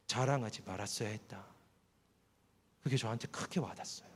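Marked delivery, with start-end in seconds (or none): 0.1-1.4 stern inner voice, final. Retold or imitated. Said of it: "목소리 하나가 들렸어요".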